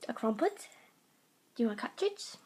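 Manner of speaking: lightly put-on British accent. Offering the cat treats, British accent. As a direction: ask it in a playful British accent. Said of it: "British accents I do very well".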